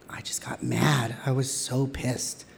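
slow, breathy whisper of remembered fury; quiet seething whisper; whispered anger. Real, not acted. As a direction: hush it, seething. Retelling his anger, whispered.

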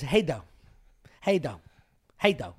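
clipped slurred greeting; slurred how you doing. Retold or imitated. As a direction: mumble it down to two syllables. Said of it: "But he says".

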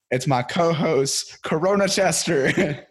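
high hyped ring announcer voice. Acted. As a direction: announce the co-host's new nickname. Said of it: "I got a new one".

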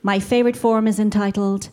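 ordinary talk, nothing marked

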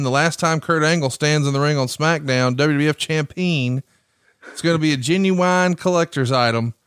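goofy Southern drawl, quoted; a lazy Southern drawl. Retold or imitated. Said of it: "then you do a Southern drawl".

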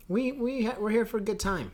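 high put-on silly voice; comic high-pitched company voice; mock studio spokesman.

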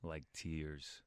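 soothing film monologue. Acted. Announcer reads a film's last line for contestants, soothing. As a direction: soothe the listener, slowing and softening on the last words. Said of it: "I was distracted by the soothing voice".

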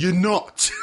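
hammed-up bullish retort; pretend lawyer arguing. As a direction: shut down the argument by sheer volume.

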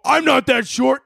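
high-pitched mocking whine; mock indignant protest. Podcaster imitating Tom upset about his height, mock indignant.

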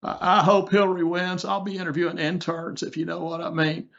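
Bill Clinton. Acted. Host doing a requested turn for a comedian, Clinton impression. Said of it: "Okay, I'll do Clinton".

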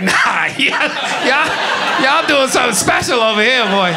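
judge's verdict. Retold or imitated. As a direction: call it out like a dazzled judge. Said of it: "Was like".

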